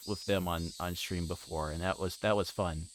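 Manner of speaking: normal talking voice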